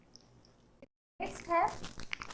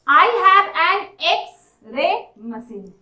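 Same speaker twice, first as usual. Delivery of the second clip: slow example reading; much slower than usual. Shown as a demonstration.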